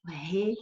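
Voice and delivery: "releem" split as "re... le... em" with pauses; slow syllable-by-syllable "releem"; syllables separated. Shown as a demonstration. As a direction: break "releem" apart, each "e" in its own syllable. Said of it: "duas vogais em sílabas separadas".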